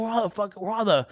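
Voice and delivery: high, punchy callout to crowd; stage joke callout. Retold or imitated. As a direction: call out to the crowd. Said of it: "'cause I said a joke".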